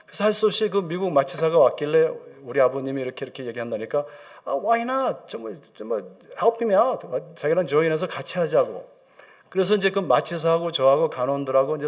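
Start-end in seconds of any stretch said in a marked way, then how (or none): 4.4-7.1 high-pitched, slowed retold appeal; lightly acted pleading, pitched up; coaxing. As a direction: coax a colleague to help. Acts asking anaesthetist to help.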